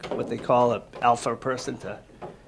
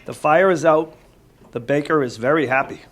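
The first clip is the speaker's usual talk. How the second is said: clear, lively storybook read-aloud, louder; reading to children; 2 semitones higher, 6 dB louder than usual. Acted. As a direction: read it out to the kids with energy.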